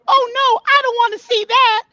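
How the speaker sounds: high, alarmed oh no; dismayed. Real, not acted. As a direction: recoil at the image. Reacting to new emoji image.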